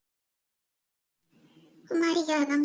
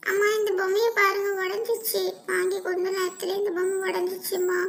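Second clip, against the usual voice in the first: put-on slightly raised complaining child voice; a touch of dismay, calling for mother; child grumbling over a broken toy; lightly voiced upset child; 4 semitones higher than usual.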